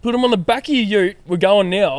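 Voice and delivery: high-pitched imitation of an insistent mate; urgent mock demand. Friend repeating instructions to his drunk mate, insistent.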